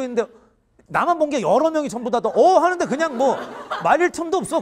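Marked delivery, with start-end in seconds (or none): 2.2-2.6 shocked gasp. Retold or imitated. Watching soldier on CCTV.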